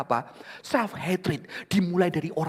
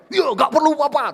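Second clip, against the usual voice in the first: put-on girl laughing; 13 semitones higher, 12 dB louder than usual. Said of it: "tertawa dia".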